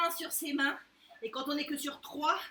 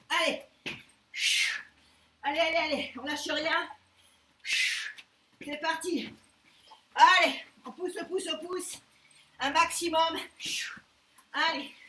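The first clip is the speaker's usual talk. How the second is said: gym bro; 3 dB louder than usual. Real, not acted. Coach cheering through burpees.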